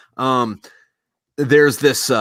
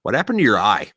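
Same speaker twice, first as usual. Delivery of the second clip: put-on eager young pirate; 4 semitones higher, 5 dB louder than usual. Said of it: "the young pirate's like".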